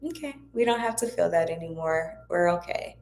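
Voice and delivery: calm yourself down kindly; soothing reassurance. Shown as a demonstration. Showing viewers how to soothe their angry self, softly. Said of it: "just simply say".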